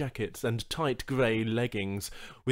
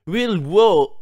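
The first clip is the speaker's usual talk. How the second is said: Banu greeting; 8 semitones higher, 13 dB louder than usual. Acted. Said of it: "greeting ... in Banu".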